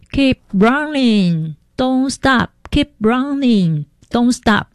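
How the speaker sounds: high urgent English commands, dragged out slow; police shouting orders. Retold or imitated. Police officer yelling at fleeing crowd, urgent high calls. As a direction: relay the cop's frantic order to keep moving. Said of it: "听到警察大叫说".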